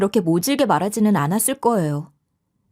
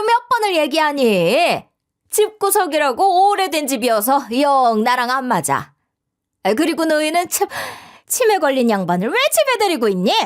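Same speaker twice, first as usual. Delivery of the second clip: brash nagging with swooping pitch; loud, griping mother-in-law; 4 semitones higher than usual. Acted. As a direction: complain scornfully and needle the in-law. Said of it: "그렇게 큰 소리로 말씀하시지 마세요". (목청 높여 타박하는 시어머니)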